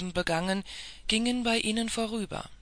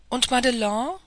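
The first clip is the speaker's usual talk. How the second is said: higher, louder cry of alarm; calling out; 4 semitones higher, 5 dB louder than usual. A narrator's reading. Scuderie cries out to the president, alarmed for Madelon. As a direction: cry out the girl's name in alarm. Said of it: "rief die Scuderie".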